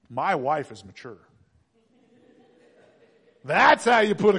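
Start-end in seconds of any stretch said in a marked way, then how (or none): 0.1-1.2 lower, careful understatement; tactful. Acted. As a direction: step delicately round the word. Tactful compliment after loud admission.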